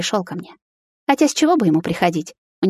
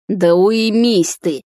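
louder, very slow snapping yell; slow angry shout; 4 dB louder, much slower than usual. A narrator's reading. Miron yells at his jealous friend, slow angry shout. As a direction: drag it out, fed up. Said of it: "закричал на неё Мирон".

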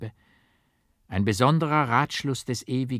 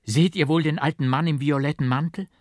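high, louder excited telling; excited witness; 6 semitones higher, 5 dB louder, faster than usual. A narrator's reading. A witness tells the crowd what he saw, excited and high. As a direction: point it out breathless with awe.

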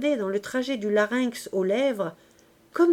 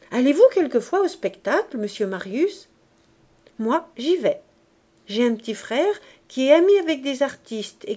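put-on chatty girl; 3 dB louder than usual. Éponine chatting at Marius.

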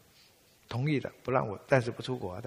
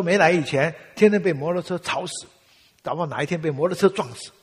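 louder, higher grumbling father; loud complaint; 6 semitones higher, 9 dB louder than usual. Retold or imitated. Father complaining to his son about Taiwan motorbikes, loud. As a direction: vent about the noisy motorbikes.

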